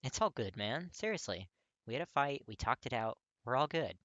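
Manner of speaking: put-on bright, eager young guy insisting all is fine; reassuring friend voice. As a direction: talk him down like a buddy after a fight. Kirishima voiced in a story.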